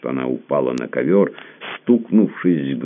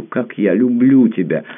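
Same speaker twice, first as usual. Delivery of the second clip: louder and higher, stress on люблю falling hard; passionate outcry; 8 semitones higher, 5 dB louder than usual. A narrator's reading. Tamara declaring her love to Pierre, louder and higher. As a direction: swell up on люблю, nearly crying it out. Repeated confession, second take builds.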